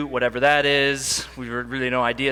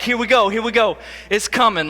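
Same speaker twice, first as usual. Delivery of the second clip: louder mock bracing, gearing up; dad bracing for an awkward talk; bracing himself; 5 semitones higher, 4 dB louder than usual. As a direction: psych yourself up for the big talk.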